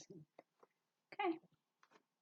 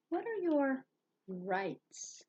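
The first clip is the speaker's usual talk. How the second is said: mysterious question; 6 semitones higher, much slower than usual. Shown as a demonstration. Teacher poses question dramatically.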